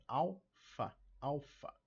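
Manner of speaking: "alfa" slowly split as AL-fa; stress on AL. Shown as a demonstration. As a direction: lean on the first syllable of "alfa". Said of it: "na primeira aqui em al". ("alfa" com tônica em AL)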